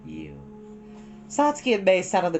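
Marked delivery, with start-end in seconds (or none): 0.0-0.3 low, slow spirit voice calling to seeds; gentle creature coaxing sprouts; Totoro speaking. Acted. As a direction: lower and unhurried, like a voice from the earth. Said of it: "he told them".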